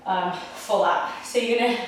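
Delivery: talking while out of breath; winded, catching breath between words. Real, not acted. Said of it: "I'm actually out of breath".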